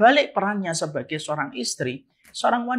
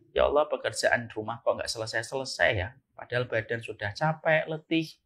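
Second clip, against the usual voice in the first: low, much softer weary complaint; soft tired sigh; 9 semitones lower, 8 dB quieter than usual. Pretend. Wife gently complaining near her husband, low and soft. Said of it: "diksi yang menyejukkan, intonasi dan nada-nada rendah".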